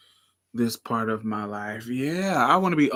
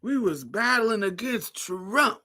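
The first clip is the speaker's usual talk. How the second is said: slow, much higher granny; old lady voice; 10 semitones higher, slower than usual. Pretend. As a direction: croak like an old auntie. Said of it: "I wanna be talking shit".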